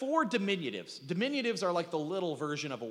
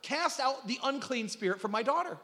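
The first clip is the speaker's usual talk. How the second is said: mock begging plea; 5 semitones higher than usual. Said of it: "she begs Jesus".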